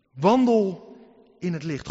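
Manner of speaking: loud ringing call; proclaimed. Acted. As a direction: boom it out as the text. Proclaims the text. (luid verkondigd "Wandel in het licht")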